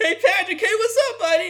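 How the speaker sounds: put-on drunken stupor voice. Retelling a cartoon scene where he wakes in a drunken stupor: imitating a character in a drunken stupor. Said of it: "in a drunken stupor, and it's like".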